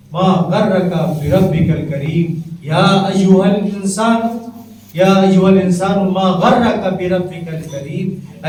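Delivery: slow intoned recitation of ما غرک بربک الکریم; verse recitation. Acted. Preacher reciting the verse to his listeners, slow intoned. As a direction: draw the verse out, rising at غرک.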